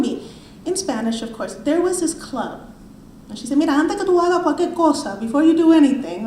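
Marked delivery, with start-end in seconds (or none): 3.6-6.3 put-on light Cuban-accented older woman; quoting Melba in a hint of Cuban accent. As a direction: slip into a Cuban lilt, not overdone. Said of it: "in that Cuban accent".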